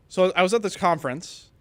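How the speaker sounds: a failed attempt at someone else's voice; barely altered put-on voice; Kevin Mercer. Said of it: "put on my Kevin Mercer voice".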